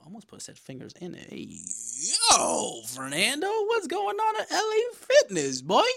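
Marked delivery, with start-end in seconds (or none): 1.3-5.9 high, loud hammed-up gym bro call; mock bro greeting. Mock greeting, friend cuts in.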